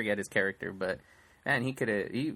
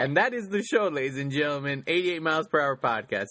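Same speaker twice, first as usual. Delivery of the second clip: mock sign-off. Mock sign-off after bickering.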